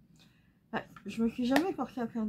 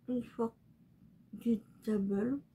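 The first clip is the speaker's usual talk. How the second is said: slow, careful Unforgettable in a clumsy French-English accent; much slower than usual. Shown as a demonstration. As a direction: sound out Unforgettable slowly in halting English. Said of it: "Ah, je sais pas le dire". (Unforgettable prononcé lentement avec un accent anglais maladroit)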